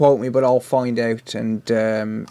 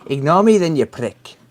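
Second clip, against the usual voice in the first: teasing Welsh lilt on the chat message; Welsh accent; 3 semitones higher, 4 dB louder than usual. Retold or imitated. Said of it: "I read them in a Welsh accent".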